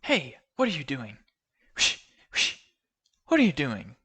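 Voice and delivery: playful confused granny; lightly voiced old woman. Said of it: "and she says".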